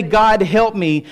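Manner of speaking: slow, weighted appeal; emphatic plea. Acted. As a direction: stretch out each word of the plea.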